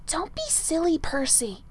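firm dismissal; firm and brisk. A narrator's reading. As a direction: shut the idea down firmly. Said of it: "Merlin said firmly".

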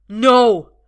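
loud desperate cry. A narrator's reading. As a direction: scream to stop the shot. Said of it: "Arthur cries".

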